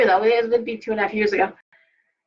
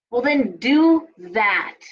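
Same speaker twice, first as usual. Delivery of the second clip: ordinary talk, nothing marked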